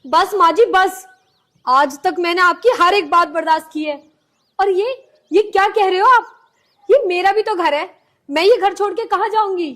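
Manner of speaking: hurt outburst. Acted. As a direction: finally push back, hurt and firm. Daughter-in-law finally answering back.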